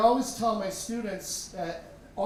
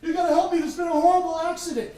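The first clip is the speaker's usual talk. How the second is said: high, loud, rushed panic; frantic plea; 10 semitones higher, 9 dB louder, faster than usual. Retold or imitated. Father running into the hospital, frantic loud plea. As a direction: burst in begging for help.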